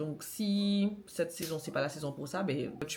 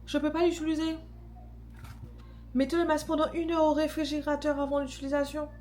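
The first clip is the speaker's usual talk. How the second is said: disappointed; 7 semitones higher than usual. Real, not acted. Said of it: "je suis dégoûtée".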